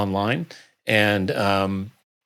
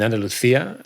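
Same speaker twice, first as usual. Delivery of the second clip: Spanish accent; 3 semitones higher than usual. Real, not acted. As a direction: place name in Castilian Spanish pronunciation. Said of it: "Spanish accent was, was really spot on".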